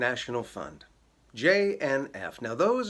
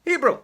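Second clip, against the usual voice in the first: Hebrew punched high and loud after a pause; mock-dramatic reveal; big reveal; 10 semitones higher, 6 dB louder than usual. Shown as a demonstration. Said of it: "wait for it".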